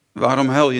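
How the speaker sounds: a gentle, loving voice for the Lord asking it; loving question. Acted. The Lord lovingly asks the grieving woman, tender and kind. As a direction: ask it tenderly, like a caring shepherd. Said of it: "op een hele liefdevolle manier".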